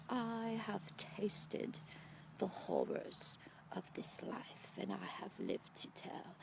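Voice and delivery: very slow, hushed near-whisper; frail dying woman. Retold or imitated. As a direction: imitate a fragile old woman with few breaths left. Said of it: "don't know how many breaths she has left".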